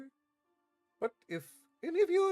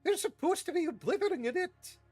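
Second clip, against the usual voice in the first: much higher, louder exasperated shout; 5 dB louder than usual. Acted. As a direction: yell back at the caretaker. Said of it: "shouted McGonagall".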